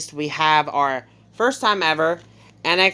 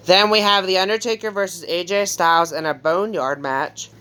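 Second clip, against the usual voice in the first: talking through a yawn; stifling a yawn mid-sentence; 2 semitones higher than usual. Real, not acted. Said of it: "I just keep yawning".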